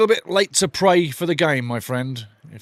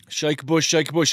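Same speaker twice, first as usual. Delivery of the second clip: bossing the prisoner, only half acted; mock prison boss; 2 semitones higher than usual. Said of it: "Cool Hand Luke?".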